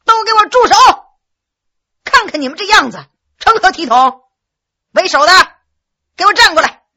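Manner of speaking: stern loud bellow. A narrator's reading. Hongxi halts the boys' fight with a stern bellow. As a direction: bellow to break up the brawl. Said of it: "不由大喝一声".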